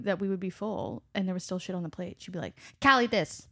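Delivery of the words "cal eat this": louder, higher mock urging; insistent feeding grandma. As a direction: imitate a grandma pushing food on you. Acts out grandmother pushing food on her.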